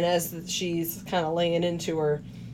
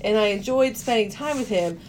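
mock torn wife; 3 semitones higher than usual. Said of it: "She's going".

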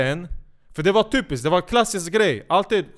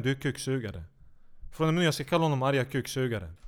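ordinary talk, nothing marked

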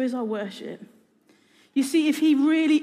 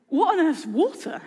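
put-on young fish; 5 semitones higher than usual. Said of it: "one of those little fish turns to the other one and says".

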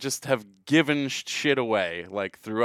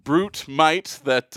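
mock grandeur; 5 semitones higher, 4 dB louder, much slower than usual.

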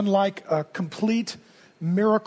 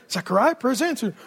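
casual announcement. Retold or imitated. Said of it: "And I come out here".

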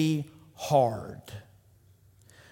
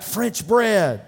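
loud, high shouted reply; team's yell back; 7 semitones higher, 5 dB louder than usual. Retold or imitated. Players yelling their answer to the coach, loud. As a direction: throw the answer back hard. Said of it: "they yell back".

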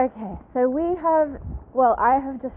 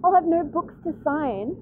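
teary laughing; 9 semitones higher than usual. Real, not acted. Moved while telling the story.

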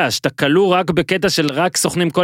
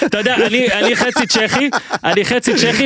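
higher-pitched put-on Soviet accent, hammed up; jokey pretend Soviet accent, pitched up; mock Soviet accent; 8 semitones higher than usual. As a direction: play a Czech agent with a fake Soviet accent. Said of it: "ועושה מבטא של, אה, סובייטי".

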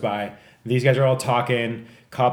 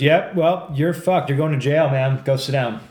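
gruff detective; 3 semitones higher, 4 dB louder than usual. Retold or imitated. Detective dismissing him, retold.

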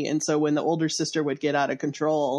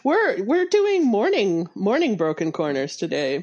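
congested voice; 3 semitones higher than usual. Real, not acted. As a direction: sound stuffed up, like a cold. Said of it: "country singer voices".

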